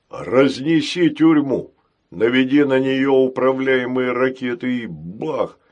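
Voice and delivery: slow, punchy, bold advice; gung-ho giant robot. Acted. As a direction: relish the "бах". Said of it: "посоветовал Грохотун". (залихватски)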